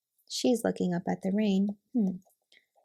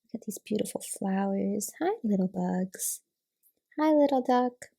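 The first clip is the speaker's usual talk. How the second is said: lightly voiced frog. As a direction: play the frog greeting its friends, lightly. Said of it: "Frog says".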